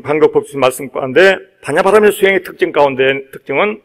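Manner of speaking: ordinary talk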